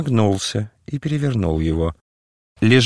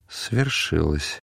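slow, low, sad and soft; 4 semitones lower, 5 dB quieter, much slower than usual. A narrator's reading. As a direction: breathe it out slowly like a grieving man. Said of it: "сказал грустный, мягкий голос". (грустно и мягко, медленно)

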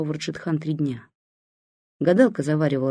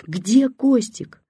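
высокий громкий медленный крик; кричи, растягивая каждое слово; 8 semitones higher, 5 dB louder, much slower than usual. A narrator's reading. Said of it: "продолжала кричать бабушка". (бабушка зовёт сына: протяжный высокий крик)

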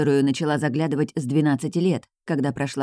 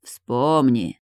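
indifferent; 3 semitones lower than usual. Acted. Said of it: "равнодушно отозвался тот".

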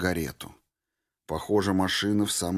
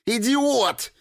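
much higher, louder enraged cry; furious insult; 4 dB louder than usual. A narrator's reading. Norris jumping with fury at the deserter, high and loud. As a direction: spit it out in rage. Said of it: "подпрыгнула от ярости".

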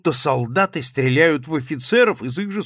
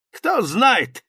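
high, loud bluff exclamation; exclaiming captain; 10 semitones higher, 7 dB louder than usual. A narrator's reading. Captain exclaims to the journalists, loud and high. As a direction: blurt it out like a brash officer. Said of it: "воскликнул штабс-капитан".

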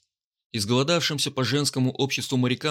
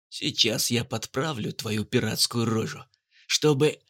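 sneering panto villain; slower than usual. Acted. Guard threatens with blade.

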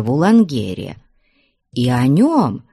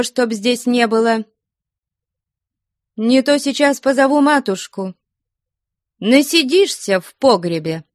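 commanding order; 9 semitones higher than usual. A narrator's reading. Flyonushka orders Ustinya out.

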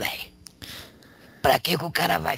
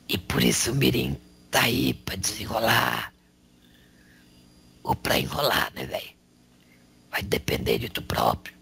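demonic voice. Acted. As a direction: rasp it out like a demon. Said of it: "tu tá com uma voz de demônio".

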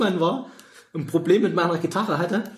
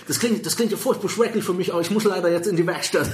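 put-on American accent in German; 4 semitones higher than usual. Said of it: "Leute mit amerikanischen Akzent".

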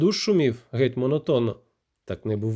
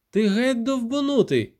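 angry yell; 9 semitones higher than usual. A narrator's reading. Irma yelling behind the door.

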